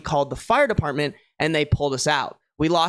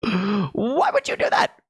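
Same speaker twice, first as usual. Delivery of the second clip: shocked gasp; slower than usual. Real, not acted. Gasping at the prank.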